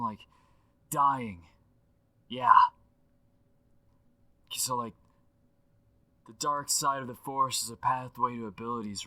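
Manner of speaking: animated, slangy dude rambling on a voicemail; Aaron Paul impression through a phone line; excitable legend left as a phone message; voicemail effect. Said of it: "With the voicemail effect".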